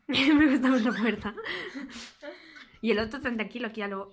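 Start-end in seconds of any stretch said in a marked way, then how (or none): 0.1-1.3 laughing as you parrot it back; giggling copycat repeat; laughing mimicry. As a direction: echo the line through a laugh. Mocking the other speaker's line.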